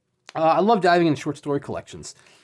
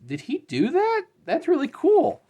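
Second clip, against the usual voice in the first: excited. Real, not acted. Spots a double signature.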